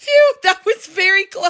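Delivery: mock, shrill, very high toddler little-girl shout. Reading out a comment quoting a three-year-old after a man passes: imitating a shout. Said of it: "she shouts".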